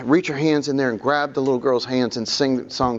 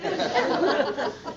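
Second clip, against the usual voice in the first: breathy laugh; 9 semitones higher, 6 dB quieter than usual. Real, not acted. Laugh after joke.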